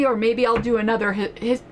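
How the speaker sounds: speech broken by gulping air; gulping air, words catch mid sentence. Real, not acted. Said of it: "I'm gulping too much air as I talk".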